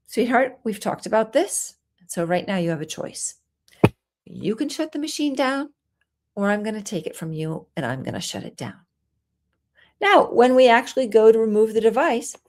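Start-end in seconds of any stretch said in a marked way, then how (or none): 0.1-8.8 soft, patient voice that still sets a limit; gentle but firm. Shown as a demonstration. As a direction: calmly offer the choice to your child. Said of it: "very gently you say".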